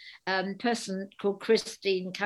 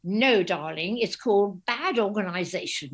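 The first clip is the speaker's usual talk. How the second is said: posh darling voice. Retold or imitated. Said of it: "And she said".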